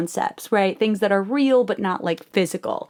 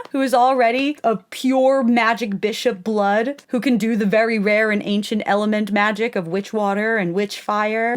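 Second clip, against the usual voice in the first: ordinary delivery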